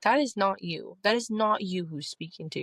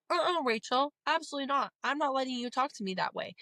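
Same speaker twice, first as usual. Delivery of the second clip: high, firm no-nonsense brush-off; sassy refusal; 6 semitones higher than usual. Pretend. Telling the mean inner voice off, sassy and firm. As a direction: shut her down with attitude. Scolding her inner critic Rachel.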